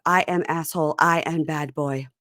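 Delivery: put-on lightly accented broken English; imitating his accent. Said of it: "He loves to talk about".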